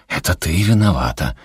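usual speaking voice

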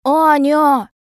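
high, loud call of the name; scared child's cry. A narrator's reading. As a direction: cry out for your sister. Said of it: "кричит Максим".

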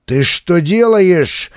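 a horrified high yell; cry out. Acted. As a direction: shout in panic to stop him. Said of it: "вскричал Жечка Жечков".

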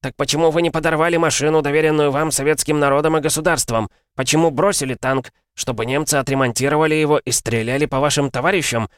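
high, angry accusing yell; yelling commissar. Acted. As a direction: scream the accusation at the soldier. Commissar interrogates soldier furiously.

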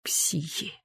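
soft whispered word. A narrator's reading. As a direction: hiss it under your breath. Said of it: "прошелестел Иннокентий".

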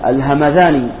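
الهمذاني with the ذ as a voiced th; dotted dhal. Shown as a demonstration. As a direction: say الهمذاني with dhal, not a plain d. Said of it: "الصواب بالذال المعجمة".

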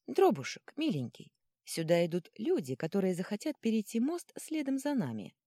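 high-starting wheedle; sweet coaxing. Acted. Girl sweet-talks the troll about pursuers, coaxing tone. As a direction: coax him like a dear pet.

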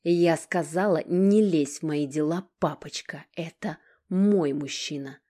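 loud, slow, menacing bark. Acted. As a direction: bite off each word. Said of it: "рявкнула Алина".

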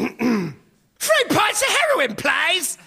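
high, drawn-out mock German accent; bad German accent. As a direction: put on a silly, high-pitched German accent. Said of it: "German accent".

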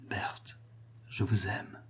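aveu murmuré, très doux; souffle-lui ton amour tout bas. A narrator's reading. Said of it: "fit-il tout bas". (déclaration à voix basse)

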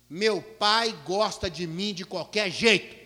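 put-on slow, deliberate little girl's certainty; child's calm retort. Little daughter tells the teacher her father loves her anyway, slow and sure.

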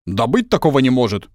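flushed with anger. A narrator's reading. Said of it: "побагровел сосед".

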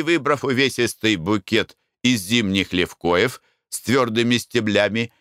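usual speaking voice

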